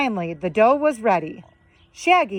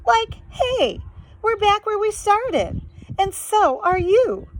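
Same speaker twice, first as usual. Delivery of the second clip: Shaggy voice; 11 semitones higher than usual. Acted.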